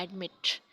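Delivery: एडमिट with the weight on मिट; teacher's demo of एडमिट stressed at the end; stress on second syllable. Shown as a demonstration. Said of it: "second syllable पर stress है".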